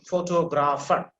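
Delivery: photographer said slowly, syllable by syllable; slow demonstration. Shown as a demonstration. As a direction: model photographer slowly for a learner. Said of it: "I'm just saying it for you".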